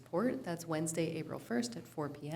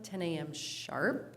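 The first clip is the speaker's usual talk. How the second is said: "sharp" drawn out slowly for emphasis; stress on sharp; much slower than usual. Real, not acted. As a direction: stretch out the word "sharp" to stress it. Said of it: "can't emphasize the word sharp enough".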